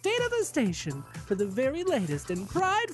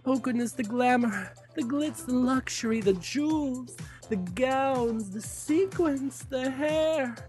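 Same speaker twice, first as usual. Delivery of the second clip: campy drag queen. Acted. Drag host promo clip.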